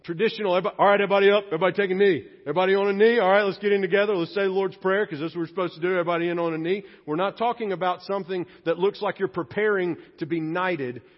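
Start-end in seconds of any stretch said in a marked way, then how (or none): 0.6-6.8 loud coach rallying the team; football coach huddle call. Retold or imitated. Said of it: "the after football game traditional".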